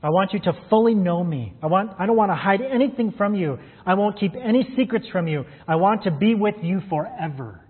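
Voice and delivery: a hint of a lover speaking to their beloved; lover's words. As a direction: say it like a tender promise to a lover, only hinted. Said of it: "words that someone might say to their lover".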